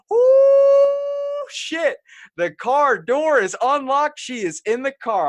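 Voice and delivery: very high drawn-out cry, then slow and loud; comic retold panic, leaping way up in pitch; shocked outburst. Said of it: "I was so shocked".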